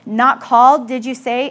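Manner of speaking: booming voice. Retold or imitated. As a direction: imitate a booming preacher, loud first words. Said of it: "he had a very booming voice".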